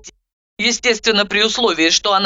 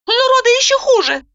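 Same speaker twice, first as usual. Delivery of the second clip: put-on high, anxious young woman; doubting, nervous retort; Zhanna, anxious; 4 dB louder than usual. A narrator's reading. Zhanna argues.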